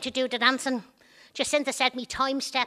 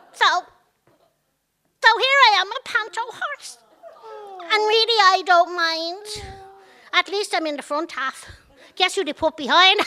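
1 excited; 7 semitones higher, 5 dB louder than usual. Acted. Comic monologue high-energy punchline.

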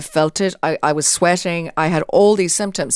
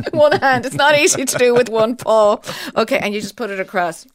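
talking through mouth tape; mouth taped; 7 semitones higher, 4 dB louder than usual. Real, not acted. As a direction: lips held by tape. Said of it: "now if I'm sounding a bit weird, I have a tape on my mouth".

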